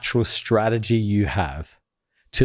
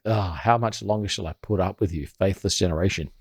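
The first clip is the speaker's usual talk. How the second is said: weary sigh; 4 semitones lower, 4 dB quieter than usual. Retold or imitated. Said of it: "he sighs".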